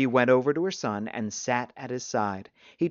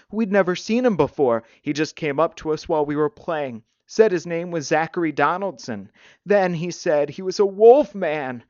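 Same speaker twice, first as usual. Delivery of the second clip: put-on higher, insistent child explaining; upset boy; 4 semitones higher, 6 dB louder than usual. A narrator's reading. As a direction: pipe up urgently as a worried boy. Upset boy explains to his mother.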